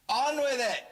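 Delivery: high, loud heckle; heckler's shout. Pretend. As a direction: call it out like an impatient heckler. Heckle catchphrase called out.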